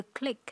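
teacher shows the final K. Shown as a demonstration. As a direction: click with a clear K at the end. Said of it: "có âm K ở cuối".

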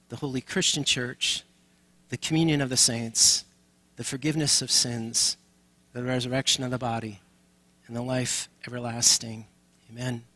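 creed recitation. Acted. Leads the Apostles' Creed together.

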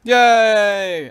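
high, loud delighted yay; excited cheer. Real, not acted. Gets the emerald bow.

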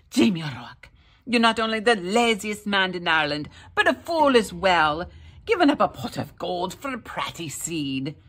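loud, fast scolding wife; furious. A narrator's reading. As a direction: tear into him. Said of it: "she was furious".

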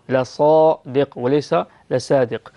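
لصادق first with emphatic ص, then with plain س; right vs wrong sad. Shown as a demonstration. Teacher contrasting right and wrong ص in لصادق. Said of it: "لازم نفخم الصاد حتى لا تصبح سينا".

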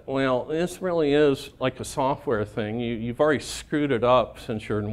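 lightly whiny software boss; a hint of a whiny complainer. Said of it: "when I do an impression of him".

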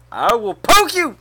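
loud, high mock threat; high-pitched pretend outrage; playful threat. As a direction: burst out with a playful warning.

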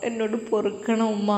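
soft, broken apology through tears; sobbing plea. Acted. Daughter at her mother's feet, begging through tears. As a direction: beg forgiveness, voice dropping away. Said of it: "അവൾ പൊട്ടിക്കരയുകയാണ്".

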